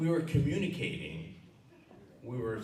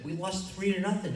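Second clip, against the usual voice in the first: put-on crying kid; 11 semitones higher, 6 dB louder than usual. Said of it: "And I'm crying".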